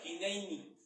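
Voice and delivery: "Hineini" said hi-NEI-ni; Hebrew pronunciation. Shown as a demonstration. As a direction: say "Hineini" as the Hebrew word, with an "ei" glide. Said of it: "se escribe y se pronuncia".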